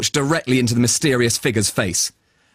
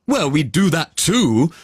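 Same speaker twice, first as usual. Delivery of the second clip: unicorn voice; 3 semitones higher than usual. Acted. Unicorn replies.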